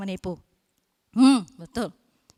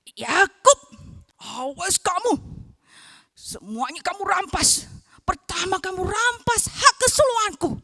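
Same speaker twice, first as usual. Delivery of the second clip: furious threat; 3 semitones higher, 4 dB louder than usual. Acted. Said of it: "Dia marah, dia geram sekali".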